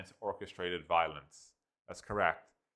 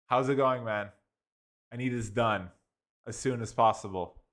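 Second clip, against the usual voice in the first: casual bro talk; 2 semitones higher, 4 dB louder than usual. Retold or imitated. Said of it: "It's more like".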